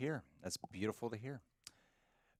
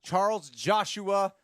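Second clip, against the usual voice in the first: high slow announce; 8 semitones higher, 8 dB louder, much slower than usual. Acted. Reading super chat name.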